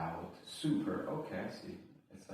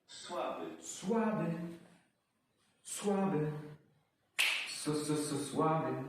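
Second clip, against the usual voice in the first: high sing-song takes; 9 semitones higher, 6 dB louder, much slower than usual. Pretend. Repeating word, high.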